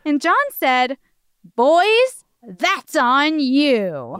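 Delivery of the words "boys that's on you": stern pronouncement. Acted. John lays down the rule, slowly.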